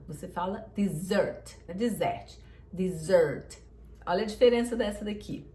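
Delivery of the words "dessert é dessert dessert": dessert dito dizert, e fechado, tônica no sert; closed e, stress second. Shown as a demonstration. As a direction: close the first vowel of dessert and stress the end. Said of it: "você não fala esse é aberto". (dessert com e fechado, tônica no fim)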